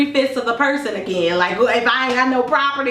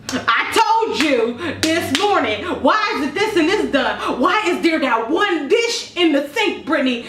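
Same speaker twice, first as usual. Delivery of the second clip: slow, drawn-out mock scolding; hammed-up mom nagging about one dish; 4 semitones higher than usual. Mom home from work, scolding daughter, slow and drawn-out.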